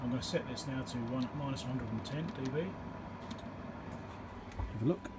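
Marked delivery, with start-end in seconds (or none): none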